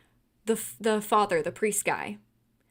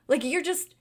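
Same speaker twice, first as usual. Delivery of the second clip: louder and higher, exasperated and heated; getting heated; 5 semitones higher, 5 dB louder than usual. Real, not acted. Venting at the cowardly priest, heated and loud. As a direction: let your outrage at the priest boil over. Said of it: "Sorry, I'm getting heated".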